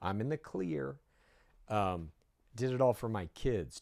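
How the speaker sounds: mock-innocent sing-song; mocking her excuses.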